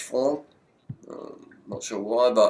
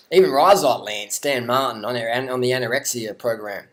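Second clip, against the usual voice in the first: play-by-play; 2 semitones higher than usual. Pretend. Mock live race commentary.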